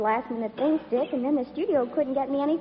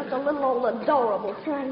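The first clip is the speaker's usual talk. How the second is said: Southern belle routine; 3 semitones lower than usual. Pretend. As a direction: apologise sweetly in a put-on Southern accent. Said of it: "my little old southern routine".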